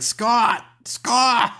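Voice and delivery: shrill-free but high, call him back down the street; calling after him. Retold or imitated. Girlfriend calling after junkie boyfriend.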